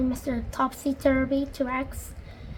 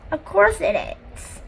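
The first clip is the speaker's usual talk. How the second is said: higher, slower words bubbling with giggles; giggling; 6 semitones higher, 5 dB louder than usual. A narrator's reading. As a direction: giggle your way through it. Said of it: "she giggled".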